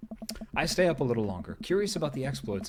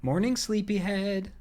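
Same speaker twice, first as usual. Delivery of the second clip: higher, slow gentle wake-up call; Amanda's voice; 7 semitones higher than usual. Acted. Wife waking husband in the morning, gently higher.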